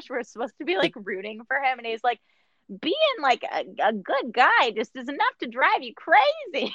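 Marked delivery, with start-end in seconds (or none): 2.8-6.7 bad put-on voice, high, swooping, drawn out, off. Mocking how an actor talks in a movie: bad Christopher Walken impression. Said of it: "a bad, like, Christopher Walken impression".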